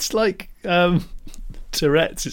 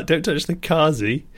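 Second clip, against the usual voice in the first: lips barely moving; sinister mumbled threat; talking with mouth closed; 4 semitones higher than usual. Shown as a demonstration. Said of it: "or the car".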